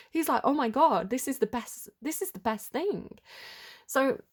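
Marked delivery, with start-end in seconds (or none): 0.4-3.2 higher-pitched, lightly acted excitement; a touch of thrilled amazement; mildly excited. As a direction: voice his delighted disbelief with a light touch. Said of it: "he's really excited".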